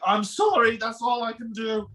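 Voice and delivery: lightly hammed-up, helpless apology; mock-helpless sorry; acted apology. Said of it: "You're like".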